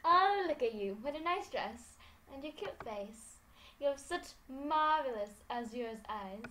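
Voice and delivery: campy drag queen. Acted. Voicing Laura complimenting her.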